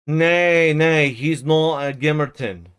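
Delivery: put-on a gruff, lightly accented old manservant; old servant Joseph. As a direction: scold them like a dour old servant.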